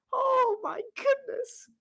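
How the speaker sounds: high, drawn-out gasp of words; stunned disbelief. Real, not acted. Shock after the live fumble.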